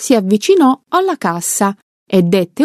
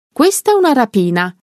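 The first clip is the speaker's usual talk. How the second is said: high, fast and urgent; robber's shouted threat; shouted announcement; 4 semitones higher, faster than usual. Acted. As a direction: bark it out at the crowd. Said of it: "e urlò".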